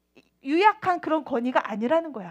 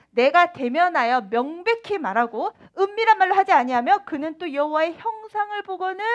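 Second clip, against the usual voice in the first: scripture reading. Real, not acted. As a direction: read the verse aloud with solemn weight. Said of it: "전도사님 읽어볼게요". (성경 구절 낭독)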